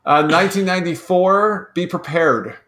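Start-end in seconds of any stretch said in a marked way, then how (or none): 1.7-2.6 dry, flat delivery, no emphasis; deadpan. Shown as a demonstration. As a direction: say the title totally deadpan. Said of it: "so straight deadpan".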